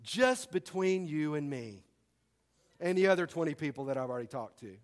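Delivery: sly faux-secret; mock confidential gossip. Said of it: "I like this one too".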